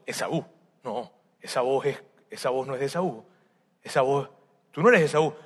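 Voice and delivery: a hint of a suspicious old man; suspicious old father.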